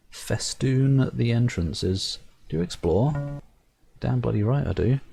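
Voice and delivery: measured storyteller reading the game text; story narration. A narrator's reading. Reading the game's narration aloud to viewers, storyteller voice. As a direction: narrate it like a fairy tale.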